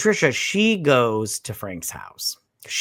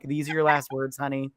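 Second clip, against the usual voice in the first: dramatic voice; 4 dB quieter than usual. Retold or imitated. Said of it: "she's so dramatic, her voice".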